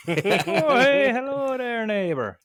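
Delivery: very high, slow hammed-up greeting; exaggerated intro voice. Shown as a demonstration. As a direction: stretch out a goofy neighborly hello. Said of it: "what do I do when I say the beginning of those videos".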